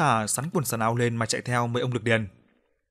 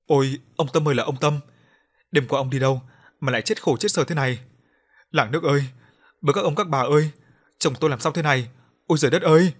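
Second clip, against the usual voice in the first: wailing; 3 semitones higher, 5 dB louder than usual. Acted. Widow wailing over her husband's corpse. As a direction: wail over the husband's body. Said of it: "mụ kia gào toáng lên".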